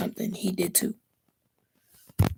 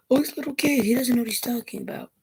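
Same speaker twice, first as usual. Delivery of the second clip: higher-pitched imitation of dismissive people; mocking doubters; 5 semitones higher than usual. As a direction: mimic the naysayers, pitched up at first.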